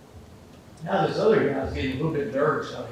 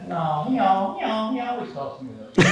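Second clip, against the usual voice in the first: higher, voice cracking into laughs; punchline through laughter; 8 semitones higher, 4 dB louder than usual. Acted. Joke teller voicing the guy's punchline, laughing through it. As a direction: deliver the punchline while laughing.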